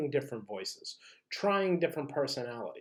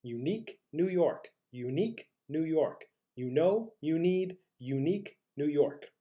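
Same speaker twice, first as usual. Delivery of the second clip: measured tongue twister. Shown as a demonstration. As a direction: leave space after each phrase. Slower take before the faster one.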